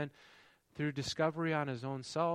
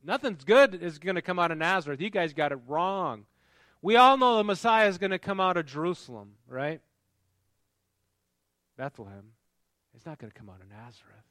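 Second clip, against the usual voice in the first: skeptical scoff; 2 semitones higher, 12 dB louder than usual. Retold or imitated. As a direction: scoff at the idea like a know-it-all skeptic. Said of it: "He's skeptical. He goes".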